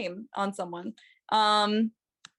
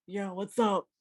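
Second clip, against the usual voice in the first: lightly voiced tough guy from New York; laid-back New York poker player; New York accent. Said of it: "poker voice, like, New York accent".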